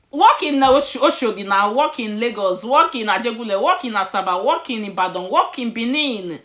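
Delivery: loud, high, rolling list of home cities; excited loud listing. Real, not acted. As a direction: call them out proudly, loud and high.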